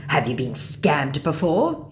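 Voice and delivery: slow, put-on scammer question; probing mock scammer. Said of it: "he tries".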